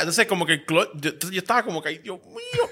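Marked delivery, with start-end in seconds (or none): 1.9-2.7 retold panic. Stalled driver panicking in retelling.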